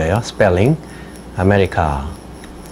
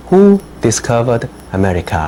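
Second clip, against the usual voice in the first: slow dictation read; much slower than usual. Shown as a demonstration. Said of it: "teacher reads a dictation question".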